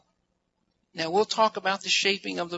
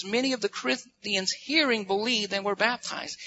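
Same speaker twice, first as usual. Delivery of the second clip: verse reading with "hearing" pitched up; stress on hearing. Real, not acted. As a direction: make "hearing" stand out by pitch. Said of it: "I really want to emphasize that word hearing".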